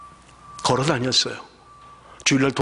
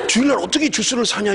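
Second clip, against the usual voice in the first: incredulous quote; 8 semitones higher than usual. Retold or imitated. Quoting the deacon's objection.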